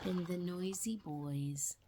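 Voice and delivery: soft unvoiced whisper. Settling the child at the end, whispering. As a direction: hush it down to the end.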